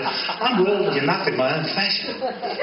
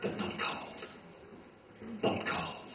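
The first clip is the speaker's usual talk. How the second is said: whisper; 5 semitones higher, 15 dB quieter than usual. Acted. Hushed repeated phrase.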